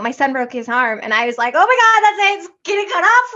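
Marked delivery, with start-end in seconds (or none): 1.5-3.3 high, loud mock panic; blurting out a parent's alarm, pitched way up; retold panic. Mother hearing her son broke his arm, retelling her high loud panic.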